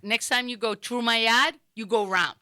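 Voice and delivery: put-on Rhode Island accent, TRU for through; Woonsocket accent. Rhode Island neighbor warning a trespasser, Woonsocket accent. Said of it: "a whole different way they pronounce stuff".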